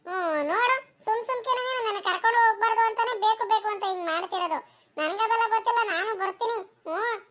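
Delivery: put-on high-pitched, stubborn childish whine; protesting child. Child protests being left behind. (ಹಠದ ಎತ್ತರದ ಮಗುವಿನ ದನಿ)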